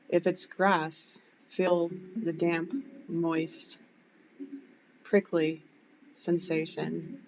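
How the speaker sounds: unhurried visualisation voice, lingering on the words; guided meditation. Shown as a demonstration. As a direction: guide them gently through the imagery, pausing between phrases. Leads a grounding visualisation.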